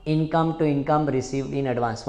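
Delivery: slow, evenly chanted entries; slow chanted memory drill; slow recitation drill. Shown as a demonstration. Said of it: "साथ में बोलो".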